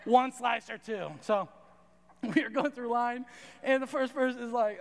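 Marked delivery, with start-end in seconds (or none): 0.0-1.1 lightly voiced lunch lady, a bit louder; a touch of cafeteria-server brusqueness; cranky lunch lady. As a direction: imitate a cranky server, firm and loud. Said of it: "it was just like that".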